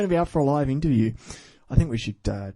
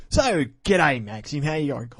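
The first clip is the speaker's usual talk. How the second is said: hammed-up greeting; 3 semitones higher than usual. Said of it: "I could do my corny English accent".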